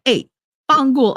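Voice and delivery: quoting the movie line. Retold or imitated. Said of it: "she jumped over the fence and said".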